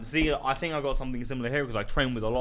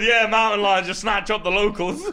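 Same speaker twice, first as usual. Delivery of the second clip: laughing; 9 semitones higher, 6 dB louder than usual. Retold or imitated. Quoting the team, laughing.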